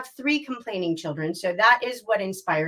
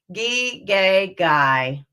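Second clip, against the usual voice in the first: falling, can't-be-bothered gee gay guy; bored drop down the scale; 5 semitones lower, much slower than usual. Shown as a demonstration. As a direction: sound like a kid who can't be bothered. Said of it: "Really bored, can't be bothered".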